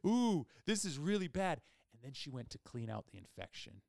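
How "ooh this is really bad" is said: high, loud mimicked Filipino-accented alarm; imitated Filipino accent. Dentist seeing how bad the infection is, imitated Filipino accent. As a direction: exclaim it in a put-on Filipino accent. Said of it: "it was a Filipino accent".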